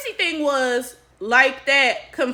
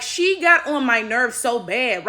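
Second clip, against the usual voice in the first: ordinary delivery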